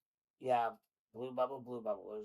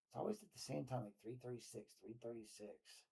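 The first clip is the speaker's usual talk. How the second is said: soft murmured aside; 12 dB quieter than usual. Real, not acted. Aside about time stamps.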